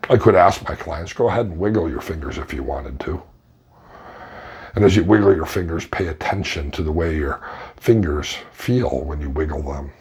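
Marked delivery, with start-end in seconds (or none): 1.1-9.9 lower, softened guiding voice; low meditation voice with long pauses; guided meditation. Shown as a demonstration. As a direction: gently lead a client through a body scan. Demonstrates guided meditation script.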